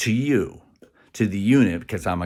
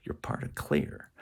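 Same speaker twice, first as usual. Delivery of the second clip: "You're part of clear" said lower and softer; 6 semitones lower, 10 dB quieter than usual. Shown as a demonstration. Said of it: "a higher voice and a lower".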